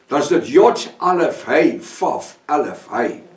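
slow, letter by letter: "Yod Alef Hey Vaf Alef Hey", each letter name set apart; spelling in Hebrew. Shown as a demonstration. Preacher spells the Hebrew name for the congregation, slow and deliberate. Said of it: "As jy die woord Jaffa wil uitspreek".

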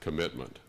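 "commitment" set apart after a short pause, falling; stress on commitment. Real, not acted. Speaker to assembled coalition, underlining their shared aim, stress on "commitment". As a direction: let "commitment" stand alone, closing on a fall. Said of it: "I emphasize the word".

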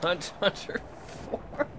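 slow whispered mourning; whispered lament. Real, not acted. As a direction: breathe it out slowly like a eulogy. Repeating ship name mournfully.

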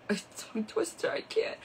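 breathy laugh through the words. Real, not acted. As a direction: laugh it off under your breath.

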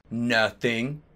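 mildly bashful murmur; shy. Acted. Draco answering Ebony in the hallway, shy. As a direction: say it like a shy crush. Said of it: "I said shyly".

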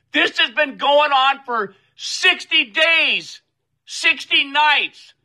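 venting real rage at the thugs, pitch climbing; real anger. Real, not acted. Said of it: "you can tell I'm pissed".

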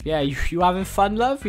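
fast, lightly put-on Welsh accent. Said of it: "really fucking Welsh".

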